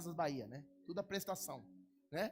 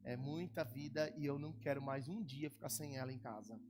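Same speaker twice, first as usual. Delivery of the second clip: lower, softer, heartfelt plea; tender, sad request; 5 semitones lower, 4 dB quieter than usual. Real, not acted. Pastor asking the church to pray for his wife, soft and sad. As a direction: speak softly of missing your wife.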